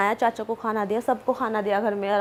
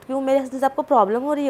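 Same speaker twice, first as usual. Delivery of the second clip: fast, mildly rude imitation; rude retort; 3 semitones higher, faster than usual. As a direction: toss back a quick retort as if retelling it. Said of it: "इतना rudely बोल रही है". (हल्के रूखे जवाब की तेज़ नकल)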